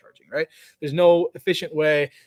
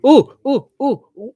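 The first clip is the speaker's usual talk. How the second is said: excited; 9 semitones higher, 11 dB louder than usual. Real, not acted. Excited at a viewer question.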